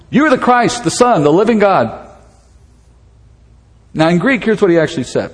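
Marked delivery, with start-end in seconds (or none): 0.1-2.0 higher, sudden burst of conviction; blurted out. Retold or imitated. Peter breaking the silence to Jesus, blurting it out. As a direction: let it spill out before you can stop. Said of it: "he just blurts it out".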